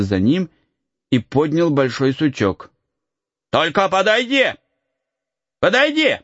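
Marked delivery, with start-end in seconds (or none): 3.5-6.2 high rising threat; threatening shout. Acted. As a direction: warn him off with a stick. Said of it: "закричал он".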